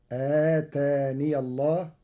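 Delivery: slow آتاني with open ya, ataniya; Warsh reading. Shown as a demonstration. الشيخ يقرأ آتاني بالياء مفتوحة. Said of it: "بإثبات الياء مفتوحة وصلا".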